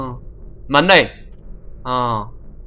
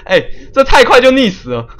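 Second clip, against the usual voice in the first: laughing; 6 semitones higher than usual. Real, not acted. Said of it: "哎，这太快就溺死了吧".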